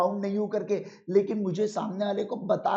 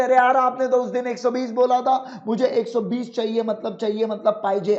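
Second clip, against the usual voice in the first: higher and louder, like an upset customer; mock haggling; 3 semitones higher, 5 dB louder than usual. Customer arguing with the shopkeeper over banana price, mock complaining. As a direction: play the annoyed buyer demanding the old price. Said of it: "आप ऐसा मेरे साथ झगड़ रहे".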